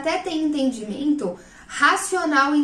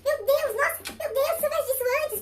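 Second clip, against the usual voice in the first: amazed gushing; 13 semitones higher, 4 dB quieter than usual. Retold or imitated. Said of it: "você fica".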